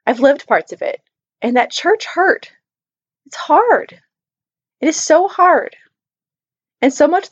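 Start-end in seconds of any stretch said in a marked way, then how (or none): 1.4-5.7 pained. Real, not acted. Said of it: "I cried through her story".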